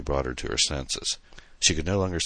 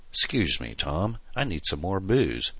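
put-on drunk slur; 3 semitones higher than usual. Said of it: "she slurred".

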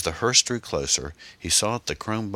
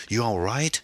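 raised, higher-pitched call; hollered; 7 semitones higher than usual. A narrator's reading. Driver to passenger in the back, calling out. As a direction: call back to check on someone. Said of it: "he hollered back".

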